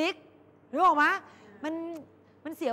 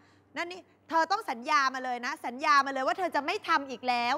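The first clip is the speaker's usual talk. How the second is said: put-on insistent girlfriend. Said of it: "อย่างเช่นเวลานะ".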